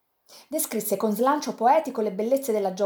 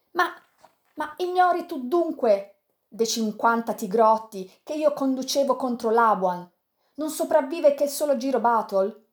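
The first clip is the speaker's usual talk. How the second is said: higher, rising fury at the defeat; bitter outburst; 3 semitones higher than usual. Acted. Sandokan telling Yanez of the slaughter, bitter rising anger. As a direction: pour out the bitter loss, building.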